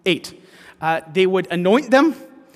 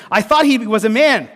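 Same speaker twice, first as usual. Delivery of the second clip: Susan, mildly surprised; 5 semitones higher, 8 dB louder than usual. Retold or imitated. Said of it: "said Susan".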